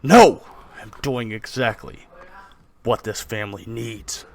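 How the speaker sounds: forceful "no", then slow and firm; loud outburst settling into stern insistence; arguing father. Acted. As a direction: shut down your wife's protest. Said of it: "your mother and father arguing".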